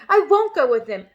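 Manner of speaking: loud determined shout. A narrator's reading. Matilda refusing her parents, loud shout. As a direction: refuse with force. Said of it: "Matilda shouted".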